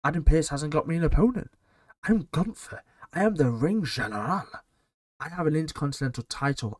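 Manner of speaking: mock Gunther sulking over having no opponent; a hint of a grumpy ring general; Gunther impression. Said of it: "Gunther's there like".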